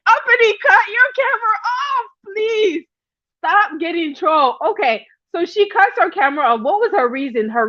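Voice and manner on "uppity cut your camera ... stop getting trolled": mock pleading. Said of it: "I'm like".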